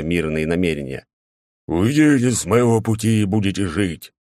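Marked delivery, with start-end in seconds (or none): 1.7-4.1 growling. A narrator's reading. Knight growls at soldiers.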